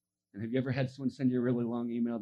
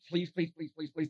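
rapid repeated pleading, slightly higher; mock begging; 3 semitones higher than usual. Shown as a demonstration. Preacher shows what the leper avoided, mock begging. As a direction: demonstrate pestering someone with a string of pleas. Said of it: "not begging, not prodding".

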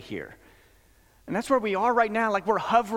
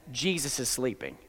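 hushed repeat; 7 semitones lower, 7 dB quieter than usual. Shown as a demonstration. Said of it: "repeated for effect".

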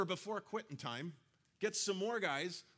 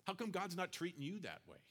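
tempter's voice; 2 semitones higher, 5 dB quieter than usual. Retold or imitated. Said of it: "He loves to tap us on the shoulder and say".

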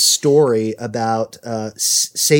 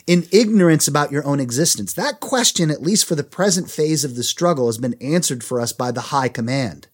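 higher-pitched, emphatic letter reading; reading a letter aloud; 3 semitones higher than usual. A narrator's reading. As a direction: read the letter out to listeners. Reads Satan's letter aloud.

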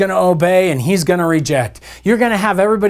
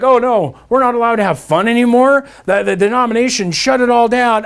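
mock lament; 4 semitones higher than usual. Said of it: "We're like".

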